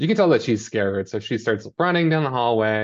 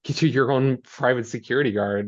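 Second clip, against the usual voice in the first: mock lecturing mom; 4 semitones higher than usual. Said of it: "lecture time from Mommy Mare".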